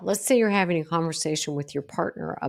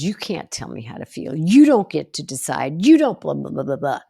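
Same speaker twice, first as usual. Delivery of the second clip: rising into a loud mocking snap, then trailing blahs; mock defensive retort; 4 dB louder than usual. Imitating the defensive reply to someone's boundary, loud and mocking. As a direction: mimic the defensive comeback you'd typically give.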